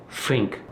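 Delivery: "fink", starting on a clear F, Cockney style; Cockney th-fronting. Shown as a demonstration. Teacher showing how Cockneys say "fink", th-fronted. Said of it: "swapping the T H for F or V".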